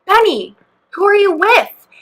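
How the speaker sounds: put-on high, sing-out challenge to a child; imitated calling out. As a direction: call a child to account, reenacted. Imitates site leader calling kid.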